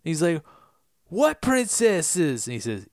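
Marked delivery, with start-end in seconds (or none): 1.1-2.5 slow, higher puzzled question. Retold or imitated. Faraday asking a puzzled question, slow and high. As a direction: ask it slowly, baffled.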